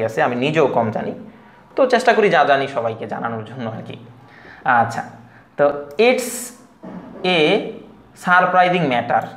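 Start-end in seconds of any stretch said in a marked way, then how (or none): 6.1-9.2 separated Bangladeshi English words, "a" as ay, r's sounded; Bangladeshi-style "surprising matter" with full r and plain t; Bangladeshi pronunciation. Shown as a demonstration. Teacher showing the usual local reading, Bangladeshi English pronunciation. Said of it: "এটা যদি আমরা বলি".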